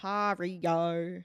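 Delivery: slow, drawn-out Aussie "Ontario"; Aussie accent. Pretend. Struggling with a hard place name, slow Aussie accent. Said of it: "Aussie accents are weird".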